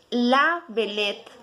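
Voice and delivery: La belette said slowly; slow repeat. Shown as a demonstration. Teacher repeating La belette slowly for students. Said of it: "se pronuncia".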